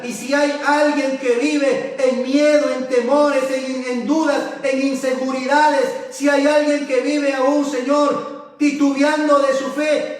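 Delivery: earnest, insistent pastoral prayer building in pitch, then settling; fervent prayer. Real, not acted. Pastor praying to God for his congregation and the sick, fervent prayer. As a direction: pray fervently, petition after petition, easing into the amen.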